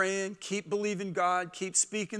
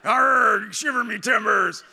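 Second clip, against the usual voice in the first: loud, growly pirate voice; 3 semitones higher, 7 dB louder, slower than usual. Retold or imitated. Dad mimicking the pirate inside his little boy, loud growl. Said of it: "what pirate jumped onto the inside".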